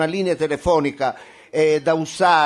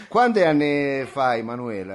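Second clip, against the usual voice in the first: laughing; 4 semitones lower than usual. Real, not acted. Laughing at fake caller.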